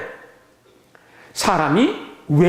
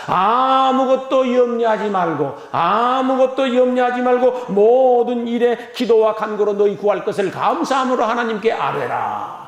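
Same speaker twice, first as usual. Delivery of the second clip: slow, drawn-out preacher's proclamation; declaimed scripture. Acted. Preacher urging worriers to pray, declaimed scripture. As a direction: stretch the first words long, declaim it.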